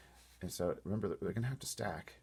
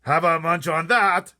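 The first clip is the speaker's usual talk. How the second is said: slow, loud, high jeer; taunting shout; 8 semitones higher, 16 dB louder, slower than usual. A narrator's reading. BFG throwing snozcumbers to giants, taunting shout. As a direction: hurl it down at them. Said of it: "he shouted".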